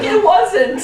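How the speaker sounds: high, loud mock sulk; hammed-up disappointed kid; deflated fan. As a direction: pout it out. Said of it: "He's like".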